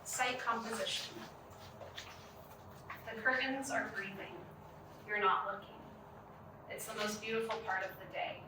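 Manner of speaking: spare poem reading, each line set apart; poetry reading. Acted. Poet starting the next of three poems, measured poetry reading. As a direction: leave a long pause between the lines.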